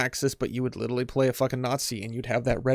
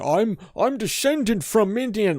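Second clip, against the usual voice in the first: higher, slower pompous claim; mock proud claim; 9 semitones higher, slower than usual. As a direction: say it like a puffed-up poser. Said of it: "some people that is like".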